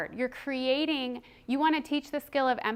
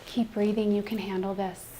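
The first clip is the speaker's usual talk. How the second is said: self-calming talk; 2 semitones lower, 4 dB louder than usual. Shown as a demonstration. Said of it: "But at some point".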